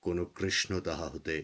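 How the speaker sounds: measured, declaimed Bengali poem with dramatic pauses; poem recitation. Acted. Poet reading their own Krishna poem to listeners, solemn recitation.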